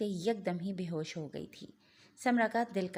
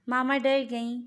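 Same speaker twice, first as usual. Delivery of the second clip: put-on louder, higher child's exclamation; amused child; 4 semitones higher, 8 dB louder than usual. A narrator's reading. Possessed daughter to her frightened mother, loud childlike taunt. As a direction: call it out as the laughing child. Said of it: "वो हंसने लगी".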